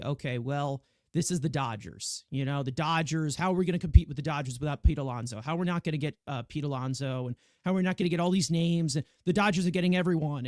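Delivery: imitating worked-up fans, picking up speed; mock fan rage. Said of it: "you know, from Rage say".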